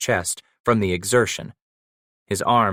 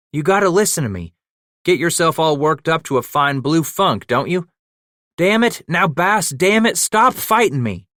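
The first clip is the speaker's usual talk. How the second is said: fast, loud, higher urgent yelling; pleading shout; 7 semitones higher, 4 dB louder than usual. Acted. Paddock wrestling his old partner, urgent shout. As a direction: push hard to get through to him. Pinning a struggling man down.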